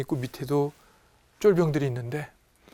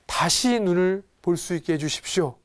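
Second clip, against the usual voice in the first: raised, imploring voice; earnest plea; 4 semitones higher, 3 dB louder than usual. Acted. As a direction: beg with mild urgency. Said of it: "간절하게 얘기를 해요". (간절하게 애원하듯)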